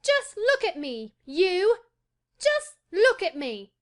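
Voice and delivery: put-on high, loud, defiant boy; Colin, flung-out challenge. A narrator's reading. Boy showing the gardener he stands, defiant. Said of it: "he flung up at Ben Weatherstaff".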